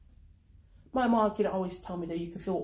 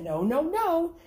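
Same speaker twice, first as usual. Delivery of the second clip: insistent no; 10 semitones higher, 7 dB louder, slower than usual. Acted. Alice grabbing the twitching rat.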